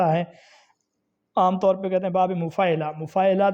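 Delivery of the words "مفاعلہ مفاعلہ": مفاعلہ as "mufaa-ila"; common mispronunciation. Shown as a demonstration. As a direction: say مفاعلہ with an "i" third vowel. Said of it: "غلط تلفظ ہے".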